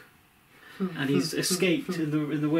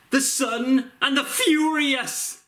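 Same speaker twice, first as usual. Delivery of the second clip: slow, high, laughing action-hero announce; Vin Diesel impression; 10 semitones higher, 4 dB louder, slower than usual. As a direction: ham up a movie trailer title. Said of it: "my Vin Diesel impression".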